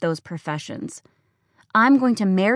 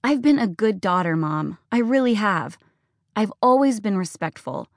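higher, shrill-edged accusing rant; furious, hurt daughter; 4 semitones higher than usual. Acted. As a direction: pour out every grievance. Daughter's tearful tirade.

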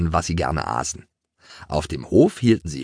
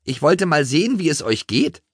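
high, lively town mouse voice; 9 semitones higher than usual. A narrator's reading. Town mouse drops in on the country mice, high-pitched.

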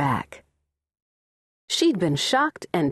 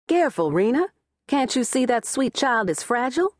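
sharp, higher warning to her daughter-in-law; 8 semitones higher than usual. Acted. Mother-in-law warning Rena off the baby, sharply. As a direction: snap the warning out, pitched up. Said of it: "then said sharply".

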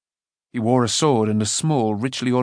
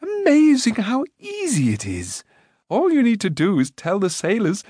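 proud prince; 9 semitones higher than usual. A narrator's reading. Rune boasting to Taran about commanding. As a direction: boast innocently. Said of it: "he went on proudly".

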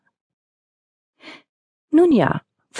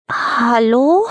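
calling out; 8 semitones higher, slower than usual. Acted. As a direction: call into the empty house. Calling through the empty house.

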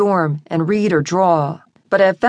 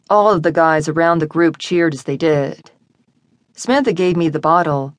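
plain reading voice

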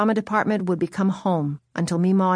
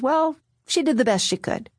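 brother's voice; 5 semitones higher than usual. Retold or imitated. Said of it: "He says".

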